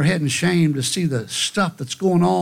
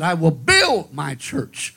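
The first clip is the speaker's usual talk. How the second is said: slow, with build stretched and hit hard; stress on build; slower than usual. Shown as a demonstration. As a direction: lean into build. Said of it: "which word he placed the most emphasis on".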